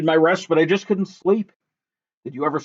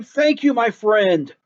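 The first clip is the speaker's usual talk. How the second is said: calling out; 4 semitones higher, much slower than usual. Acted.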